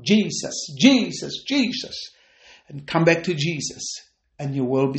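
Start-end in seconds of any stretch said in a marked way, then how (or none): 0.0-2.1 half-raised demonstration of calling out; mild shout. Shown as a demonstration. Preacher showing backsliders how to shout out, mildly. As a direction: call the name out, holding back from a full shout. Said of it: "just shout out".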